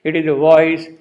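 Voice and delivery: "voice" hit loud and firm; stress on "voice". Shown as a demonstration. Teacher showing what the poet emphasizes, "voice" strongly stressed. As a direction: lean hard on the word "voice". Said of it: "he is rather emphasizing".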